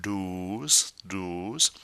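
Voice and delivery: "douze" with a long round oo; rounded mouth. Shown as a demonstration. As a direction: round the lips on "douze", rising at the end. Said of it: "nice and round".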